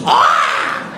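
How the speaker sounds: loud, low, rasping villain cry; dark ritual cry. Pretend. Comic acting out his climax noise, low rasping villain roar. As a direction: roar it like a sorcerer finishing a ritual. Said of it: "Kind of intense".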